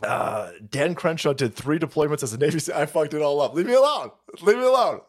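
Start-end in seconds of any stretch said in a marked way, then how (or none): 3.5-5.0 higher, whiny put-on complaint; hammed-up pleading to be left alone; mock protest. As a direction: repeat it like a pestered complainer. Mocking a politician's protest.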